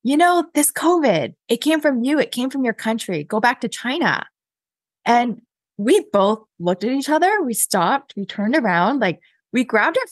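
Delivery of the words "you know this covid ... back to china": accusing stranger, raised pitch, only a touch louder; imitated loud voice. Lady in the park accusing two walkers, mildly imitated loud voice. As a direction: retell a loud accusation at moderate volume. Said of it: "said in a really loud voice".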